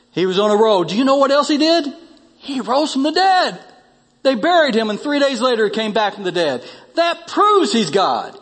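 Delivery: eager proof poured out; excited conviction. Acted.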